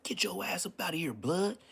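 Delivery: reenacting telling the ghost to leave; lightly performed high command; retold order.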